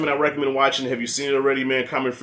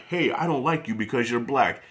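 blatant racist quote. Retold or imitated.

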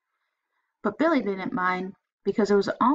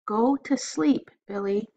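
tired mother; 2 semitones higher than usual. Acted. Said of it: "came his mother's muffle".

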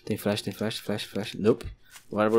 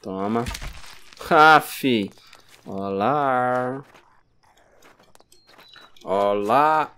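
ordinary delivery

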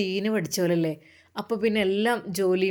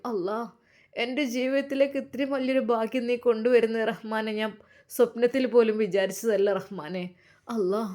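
tearful prayer; 3 semitones higher than usual. Acted. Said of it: "കരഞ്ഞു ദുആ ചെയ്തു".

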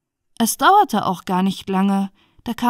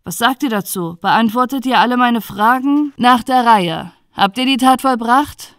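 louder, pressing questioning; a hint of a judge interrogating; lightly voiced stern judge; 2 semitones higher, 6 dB louder than usual. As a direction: question the accused firmly.

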